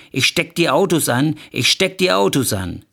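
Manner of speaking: hammed-up, insistent threat; threatening. Wife with a lighter in hand, threatening.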